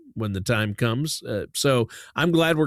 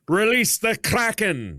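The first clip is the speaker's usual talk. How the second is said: announcer voice; 9 semitones higher, slower than usual. Pretend. Announcer-style joke title.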